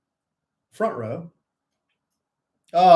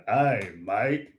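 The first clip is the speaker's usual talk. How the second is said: lower, playful Canadian-Australian greeting; mixed Canadian-Australian accent; 5 semitones lower than usual. Pretend. Host demonstrating the mix, mock Canadian-Australian accent. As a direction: blend Canadian with Australian, pitched down. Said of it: "Mix the Canada and the Australian".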